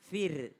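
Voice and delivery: FIR with a light, thin r; a light r closing FIR. Shown as a demonstration. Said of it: "maka ro-nya adalah tipis".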